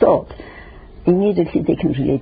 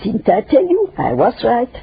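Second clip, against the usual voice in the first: high, smug told-you-so; smug gloating; 6 semitones higher than usual. Pretend. Gossip crowing over being right, high-pitched. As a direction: crow that you were right. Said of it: "I knew".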